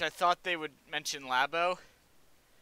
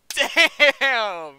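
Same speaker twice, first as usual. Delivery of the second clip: loud, high burst of disbelief; shocked exclamation; 7 semitones higher, 12 dB louder than usual. Retold or imitated. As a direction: blurt it out stunned. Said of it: "I was like".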